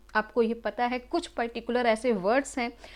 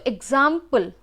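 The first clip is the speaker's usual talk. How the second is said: एग्जाम्पल broken into एग्जाम and पल; demonstrating the break in एग्जाम्पल; pause inside word; 4 dB louder than usual. Shown as a demonstration. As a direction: say एग्जाम्पल with a small break before पल. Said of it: "यहाँ पर आपको बीच में एक pause".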